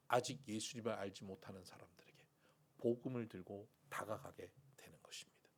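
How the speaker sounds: soft unvoiced whisper. Real, not acted. Pastor to congregation about the gospel, whisper. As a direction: confide it quietly to the room. Hushed preaching.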